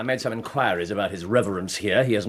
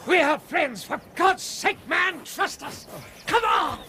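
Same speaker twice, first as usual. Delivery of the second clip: urgent shout; slower than usual. Acted. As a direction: shout at him to trust you and come. Urging a stranger to follow.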